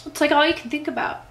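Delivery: choked up and high; teary, choked. Real, not acted. Vlogger to viewers about infertile friends, near tears. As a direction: voice cracking with real emotion. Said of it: "makes me cry".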